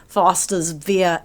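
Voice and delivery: tentative stab at an Australian accent; Australian accent attempt. Shown as a demonstration. Co-host quoting the beer can's name, tentative Australian accent. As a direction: try it lightly in an Australian accent. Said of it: "how do you say it with an Australian accent".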